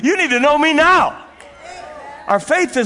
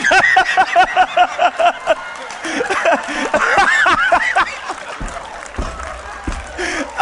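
long laughing fit; 6 semitones higher than usual. Real, not acted. Preacher laughing at own story.

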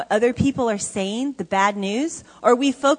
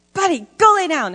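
put-on "Buddy, go lay down" higher, a child copying the yell; imitating a little boy; 7 semitones higher, 6 dB louder than usual. Foster son Dominic copying the yell, higher child voice. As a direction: parrot the scold like a five-year-old. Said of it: "He's like".

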